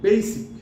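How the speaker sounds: বেসিক as loud, high "BAY-sik"; long "ay" in বেসিক; correct pronunciation. Shown as a demonstration. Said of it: "সেটা উচ্চারণটা হবে".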